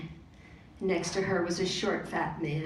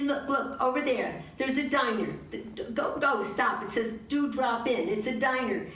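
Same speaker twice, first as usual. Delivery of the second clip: excited; 4 semitones higher than usual. Acted. Stacy excitedly spotting a diner.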